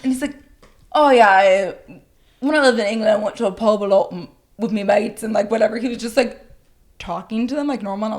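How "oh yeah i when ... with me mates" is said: hammed-up British pub-goer; British accent. Drunk friend chatting to British couple, put-on British accent. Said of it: "talking in, like, a British accent".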